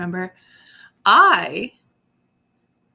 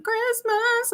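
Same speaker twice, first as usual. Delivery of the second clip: excited squeal. Retold or imitated. Everyone eager after Halloween.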